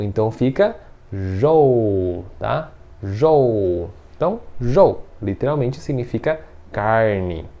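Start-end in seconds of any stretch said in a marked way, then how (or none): 1.1-2.2 jou drawn out slowly, curled j into ou; slow syllable demo. Shown as a demonstration. Teacher blending a sound slowly for the class. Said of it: "juntar o j com o ou".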